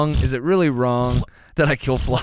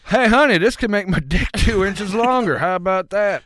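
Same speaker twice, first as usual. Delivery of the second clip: excited man; 5 semitones higher, 3 dB louder than usual. Retold or imitated. Winner voiced happily to wife.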